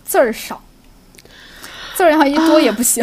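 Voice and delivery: casual Shaanxi dialect; Shaanxi accent. Shown as a demonstration. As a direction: talk in relaxed Shaanxi speech. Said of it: "你知道为啥我现在说的特别溜吗".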